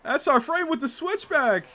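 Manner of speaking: high, loud excited race call. Real, not acted. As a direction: shout the pass as it happens. Live excited call of the overtake.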